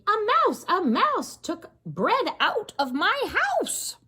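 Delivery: high, loud panicked scream for Rivka. A narrator's reading. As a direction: shriek it, a widow chasing a thief.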